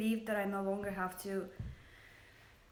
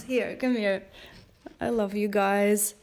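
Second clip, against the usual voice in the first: much louder, beaming and effusive; loud gushing warmth; 8 dB louder, slower than usual. Real, not acted. Livestreamer hugging her viewers, loud and effusive. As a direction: pour out a loud virtual hug to the viewers. Giving viewers a big internet hug.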